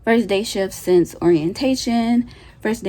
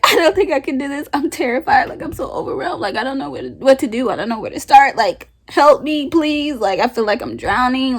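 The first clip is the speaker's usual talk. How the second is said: higher, pleading as if sobbing; a mock tearful plea for help; retold crying plea; 4 semitones higher than usual. New nurse begging her charge nurse for help, tearful and higher. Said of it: "snot crying".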